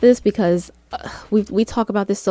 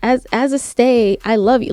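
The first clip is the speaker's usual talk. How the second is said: mocking fan messages; 3 semitones higher than usual. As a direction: mimic gushing fandom comments. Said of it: "a lot of these messages are like".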